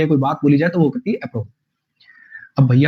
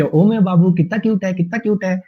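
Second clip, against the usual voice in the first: cooing over a puppy; 3 semitones higher than usual. Retold or imitated. A hint of a pet owner cooing at a tiny puppy. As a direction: gush like a pet owner fussing over a lapdog. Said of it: "वो लड़के".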